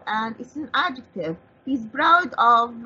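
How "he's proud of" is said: slowly spelled-out proud of; slow teaching read. Shown as a demonstration. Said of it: "We have the word proud".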